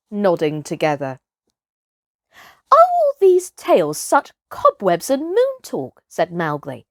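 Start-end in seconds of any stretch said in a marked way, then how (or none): 2.7-6.0 put-on scornful boy. Boy mocks the hunter's tale.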